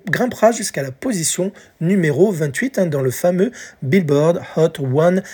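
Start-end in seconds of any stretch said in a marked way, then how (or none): 3.8-5.2 Billboard Hot one hundred in a light English accent; English accent, chart-show flair. Shown as a demonstration. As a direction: announce the chart name the English way. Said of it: "avec mon accent anglais".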